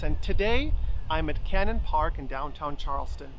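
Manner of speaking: today given a light emphasis; a subtle push on today to open the sentence; stress on today. Shown as a demonstration. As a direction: lean gently on the word today. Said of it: "Notice how I started the sentence with an emphasis on today".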